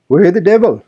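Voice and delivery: put-on high, loud indignant old Joseph; sour old servant's outburst. A narrator's reading. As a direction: snap it out like a cross old man. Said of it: "began the religious elder".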